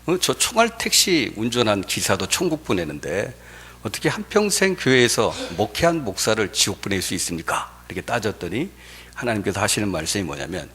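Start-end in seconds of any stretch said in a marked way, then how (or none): 0.1-7.7 indignant protest. Acted. Pastor disputing God's judgment of hell, indignantly protesting. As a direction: lightly act out a pastor contesting an unfair verdict. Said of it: "따지는 거예요".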